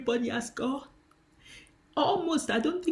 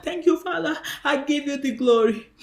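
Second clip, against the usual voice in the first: earnest thanks; 2 semitones higher, 6 dB louder than usual. Retold or imitated. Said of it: "then I call him Father".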